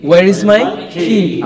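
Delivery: Where is my key said very slowly; each word drawn out for pupils; slow model. Shown as a demonstration.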